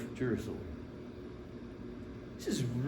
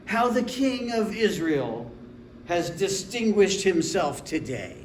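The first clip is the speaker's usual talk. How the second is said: slow, raised, sarcastic tone; disdainful; 2 semitones higher than usual. Acted. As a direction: heap mild scorn on a husband, drawn out. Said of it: "forgive my tone right now".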